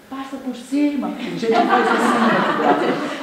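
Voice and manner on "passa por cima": higher, irritated yell at the car behind; mock angry driver. Driver annoyed at tailgater, mock angry call. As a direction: snap at the tailgater to just pass. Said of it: "a gente também fica com raiva".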